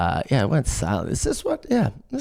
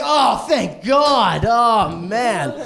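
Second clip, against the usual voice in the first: slow loud relieved cry; mock relief; 3 semitones higher, 4 dB louder, much slower than usual. Coworkers hear it's only cocaine, loud mock relief. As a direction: overdo the relief.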